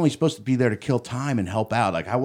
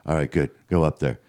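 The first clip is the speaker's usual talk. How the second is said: much lower, matter-of-fact host voice; host's instructions; 8 semitones lower than usual. Retold or imitated. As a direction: give the comic his rules like a gruff emcee. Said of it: "Al Ernst, he's like".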